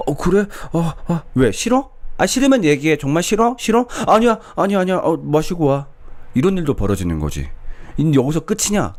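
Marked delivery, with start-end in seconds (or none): 0.1-3.9 high, nervous mock checking; a pushover pretending it's fine; anxious boyfriend. Boyfriend fakes consent. 4.1-5.9 mock panic, then let her go; hurried backing down. Boyfriend backs down.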